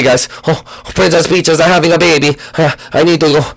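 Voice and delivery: ordinary talk, nothing marked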